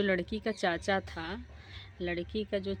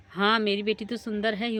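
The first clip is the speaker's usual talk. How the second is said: angry; 3 semitones higher, 6 dB louder than usual. Acted. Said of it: "मतलब गुस्सा हो गई".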